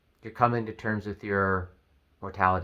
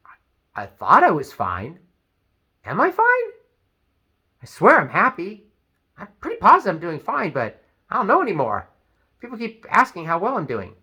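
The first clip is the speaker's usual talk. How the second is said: self-doubting worry; 6 semitones higher, 3 dB louder than usual. Retold or imitated. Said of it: "you start to question".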